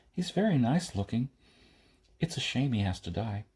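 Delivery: lightly voiced girl, calmly blunt; girl's voice.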